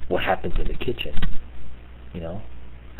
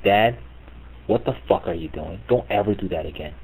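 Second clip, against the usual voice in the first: stern quiet scolding; 6 dB quieter than usual. Retold or imitated. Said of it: "I would be like".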